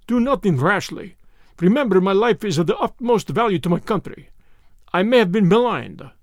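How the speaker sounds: a hint of a cornered Russian revolutionist; frightened Russian. Cornered Russian pleads with his captor, anxious.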